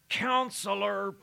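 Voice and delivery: high, sustained, slow declamation; choral crescendo. Retold or imitated. Preacher imitating the next Messiah outburst before the silence, choral crescendo. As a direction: hold the word out like a massed choir. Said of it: "that crescendo".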